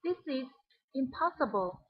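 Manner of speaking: pause, then a stressed "impossible"; "impossible" set apart after a short pause. Shown as a demonstration. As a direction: hold back before "impossible", then emphasize it. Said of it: "put stress on the word impossible".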